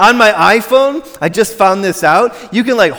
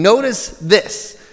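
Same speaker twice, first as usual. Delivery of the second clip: "Notice this" slow and a little raised; emphatic; 3 semitones higher, slower than usual. Shown as a demonstration. Preacher explaining what repetition signals, slow emphasis on "Notice this". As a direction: set "Notice this" apart, deliberately. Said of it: "putting the exclamation point on it".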